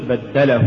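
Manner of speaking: بدله as one unbroken word; correctly joined word. Shown as a demonstration. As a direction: keep له bound inside بدله. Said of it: "قل". (نطق «بدله» كلمة واحدة)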